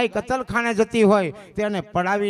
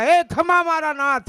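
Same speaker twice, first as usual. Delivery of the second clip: high, loud calling out; cowherd's cry; 9 semitones higher, 6 dB louder than usual. Retold or imitated. Cowherd calls to his lord as cattle are driven off, imitated shout. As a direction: cry out for help, pitched up high. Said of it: "બૂમ પાડી ગોવાળિયા".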